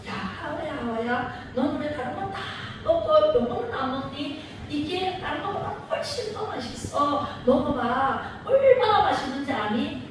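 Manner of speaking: soft, sly coaxing voice as the serpent; a lightly voiced tempting snake. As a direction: lure her in, softly and sweetly. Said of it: "이렇게 꼬십니다".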